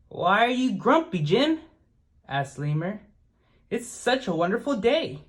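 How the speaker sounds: bright puzzled asking; lightly voiced lemur, high and curious. A narrator's reading. Lemur questions grumpy Jim.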